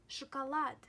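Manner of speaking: "шоколад" with each unstressed O said as "a"; "шоколад" with A sounds before the stressed last syllable. Shown as a demonstration. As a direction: say "шоколад" like "shakalAD". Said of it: "you pronounce it as A".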